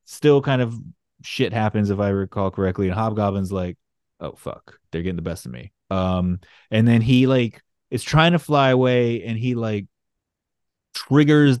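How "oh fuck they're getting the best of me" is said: softer, lower, near-whispered villain grumble; mock defeated whisper. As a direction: hiss it like a beaten villain. Hobgoblin voiced losing the fight.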